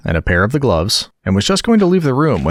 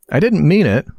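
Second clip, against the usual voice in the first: pleading; 7 semitones higher than usual. Acted. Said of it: "pleaded poor Alice".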